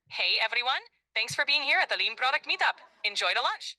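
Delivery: put-on English with a Greek accent; Greek-accented English, upbeat. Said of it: "speak English with a Greek accent?".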